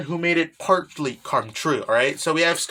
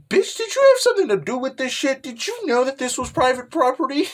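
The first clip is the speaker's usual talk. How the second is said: accusing shriek; 8 semitones higher than usual. Retold or imitated. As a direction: turn and jab the blame at her. Girls turn on Kaguya.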